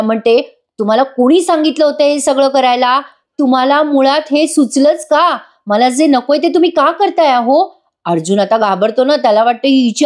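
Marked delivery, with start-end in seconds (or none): 0.8-7.8 mock angry wife. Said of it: "Sayali आता खूप चिडते".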